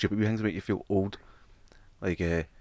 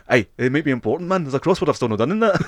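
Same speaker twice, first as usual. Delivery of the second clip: higher, slightly louder mock hoarder voice; hoarder excuse; 6 semitones higher, 5 dB louder than usual. Hoarder Davey excusing his old papers, higher mock voice. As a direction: defend the junk like it matters.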